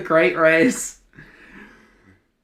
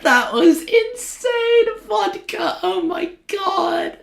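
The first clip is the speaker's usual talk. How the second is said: out of breath; 12 semitones higher, slower than usual. Real, not acted. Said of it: "I am so out of breath after that".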